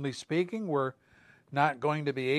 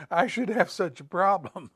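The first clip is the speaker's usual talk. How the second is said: envious quip; 3 semitones higher than usual. Retold or imitated. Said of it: "We think to ourselves".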